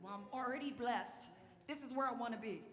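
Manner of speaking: high-pitched acted-out objection; playful mock resistance; protesting. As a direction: push back in a high voice. Acts out balking at God's call.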